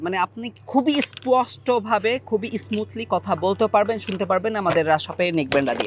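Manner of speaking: muffled, speaking from inside a helmet. Shown as a demonstration. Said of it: "আমি আপনাকে helmet পরেও দেখাচ্ছি". (হেলমেটের ভেতর থেকে চাপা কণ্ঠে)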